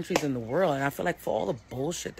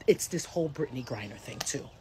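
whisper; 3 semitones lower, 3 dB quieter than usual. Real, not acted. Livestream rant, sudden whisper.

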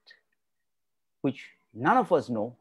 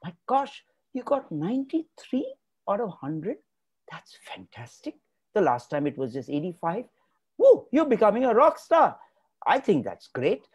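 higher, delighted cheering over a good mark; excited parent praise; 5 semitones higher than usual. Acted. Parent praising a child's test score, delighted.

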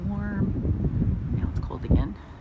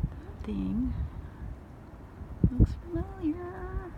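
Southern accent; 10 semitones higher, slower than usual. Shown as a demonstration. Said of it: "Here comes my southern accent".

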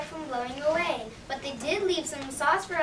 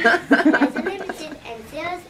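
louder, urgent sales shout; urgent ad push; 2 semitones higher, 7 dB louder than usual. Acted. Shoe ad urging customers before midnight, loud and urgent. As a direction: hurry them to buy now.

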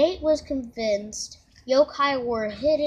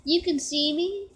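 surprised; 5 semitones higher than usual. Acted. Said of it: "he exclaimed".

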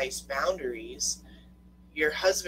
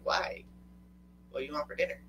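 husband asking plainly; faster than usual. Retold or imitated. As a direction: ask it evenly, at an everyday pitch. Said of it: "And he's all like".

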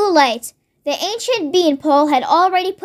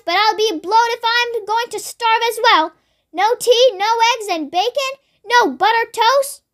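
put-on raised, higher voice of a bossy old woman demanding breakfast; shouting grandma; 4 semitones higher than usual. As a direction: bark the complaints up, high and indignant. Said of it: "she shouted".

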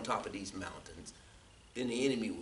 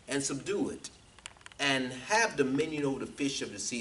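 scripture reading; 2 semitones higher, 3 dB louder than usual. Real, not acted. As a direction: proclaim the verse phrase by phrase, stretching key words. Reads scripture aloud.

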